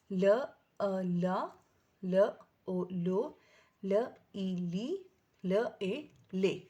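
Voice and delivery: ل joined with each vowel: لا, لو, لی, لے; sounding out blends. Shown as a demonstration. Teacher to parents, blending ل with vowels. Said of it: "پھر next حرف ہمارے پاس کیا ہے".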